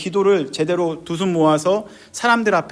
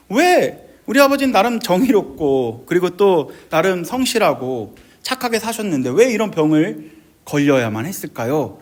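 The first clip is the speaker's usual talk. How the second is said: mild protest, opening loud then easing; retold confrontation; 3 dB louder than usual. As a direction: argue with the doctor over an injustice. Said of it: "의사 선생님께도 따졌어요". (의사에게 따지듯 하소연)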